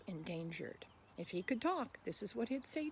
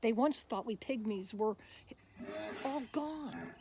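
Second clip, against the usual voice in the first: louder, bouncy rhyming voice of the tapir; tapir reciting; 3 semitones higher, 5 dB louder than usual. Acted. Tapir pleading with listeners to be saved, lively recital. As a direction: speak as the friendly tapir asking for help. Hippo speaks its poem.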